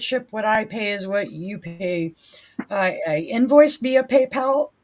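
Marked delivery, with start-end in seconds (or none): 2.7-4.7 hoarse, strained voice; losing voice. Real, not acted. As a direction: voice giving out. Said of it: "Sorry, I'm losing my voice again".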